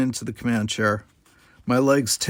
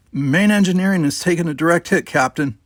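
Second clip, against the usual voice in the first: raised voice over the din; called over noise; 6 semitones higher, 4 dB louder than usual. A narrator's reading. Robin reporting damage over the noise, raised call. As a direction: call it out above the chaos. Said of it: "he called over the noise".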